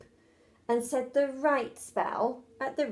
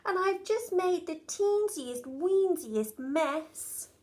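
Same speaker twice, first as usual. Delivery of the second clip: coy little witch; 5 semitones higher than usual. Acted. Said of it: "she declared".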